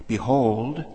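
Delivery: "Behold" rising and loud with force; powerful behold. Shown as a demonstration. Preacher contrasting Gabriel's "Behold" with Mary's, strong. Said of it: "Gabriel said it with great power".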